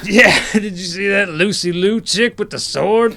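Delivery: lightly voiced biker with a laugh; gruff biker. Biker joking to his mate about the newcomer, mildly gruff. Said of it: "All bikers sound like that".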